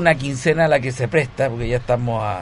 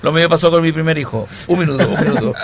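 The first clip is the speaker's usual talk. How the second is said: fake crying; 4 semitones higher, 6 dB louder, much faster than usual. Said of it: "Ya viene, ya, ya viene".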